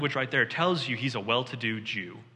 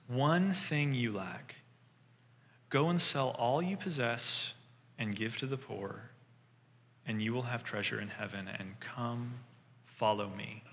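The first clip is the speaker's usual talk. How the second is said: slow, soft and tender, fading quieter; loving and gentle; 4 dB quieter than usual. Retold or imitated. Jesus speaking in love to the earnest rich man, slow and tender. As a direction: invite him gently, in love. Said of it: "Jesus looks at him in love".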